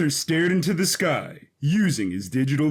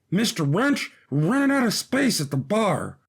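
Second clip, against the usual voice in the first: calling over a crowd; 3 semitones higher than usual. Acted. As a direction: raise the voice over the noisy bar. Brother calling over crowded pub.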